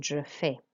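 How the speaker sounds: "je fais" ending in ay, no S; French "je fais" with silent S; final vowel sounded. Shown as a demonstration. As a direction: say "fais" as fay. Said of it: "we pronounce the last vowel sound".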